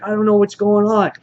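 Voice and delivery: high-pitched imitated bewilderment; mock freak-out. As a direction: imitate someone losing his grip. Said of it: "he's freaking out".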